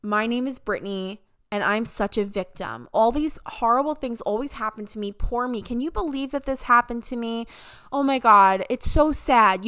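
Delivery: a light mock of a whiny victim; lightly voiced poor-me complainer; self-pitying victim. Mocking someone who plays the victim, lightly whiny. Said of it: "making yourself this character".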